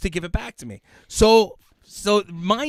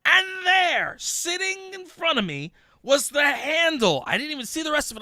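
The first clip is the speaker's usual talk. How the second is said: suspenseful buildup; 11 semitones higher, 4 dB louder than usual. Retold or imitated.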